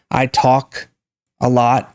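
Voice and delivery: "talk" with rounded AW; rounded vowel in "talk". Shown as a demonstration. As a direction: say "talk" slowly as tawk. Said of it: "It's talk, awk".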